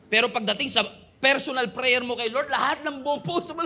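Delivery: lifted, fervent voice pouring it all out; heartfelt prayer. Retold or imitated. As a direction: pour your whole heart out to God. Private prayer, heartfelt outpouring. (taimtim na dasal)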